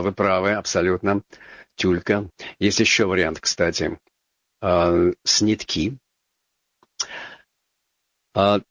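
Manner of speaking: ordinary talk, nothing marked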